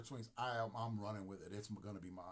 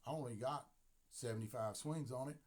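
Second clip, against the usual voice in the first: country accent. Shown as a demonstration. Player telling Dave about his bat, in a country accent. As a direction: say it like a country boy. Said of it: "See my country accent?".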